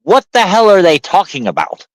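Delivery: high-pitched, incredulous quote; retold bafflement. Telling friends about watching cricket while deployed, high baffled quote. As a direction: act out being utterly baffled. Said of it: "And I'm like".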